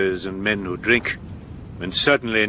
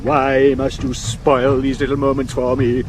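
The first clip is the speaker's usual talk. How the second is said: raised, indignant theatrical complaint; theatrical exasperation; 3 semitones higher than usual. Acted. Actor to unromantic servant, exasperated and theatrical. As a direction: lament it grandly, like a wounded actor.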